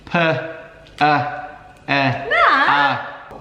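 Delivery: staccato. Shown as a demonstration. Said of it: "read it syllable by syllable".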